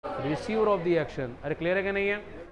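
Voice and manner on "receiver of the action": slow dictation. Shown as a demonstration. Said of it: "क्या बोलेंगे?".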